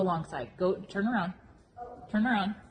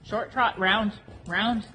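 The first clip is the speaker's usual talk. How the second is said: brisk projected riding commands; 3 dB louder, slower than usual. Shown as a demonstration.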